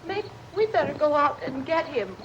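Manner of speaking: ordinary delivery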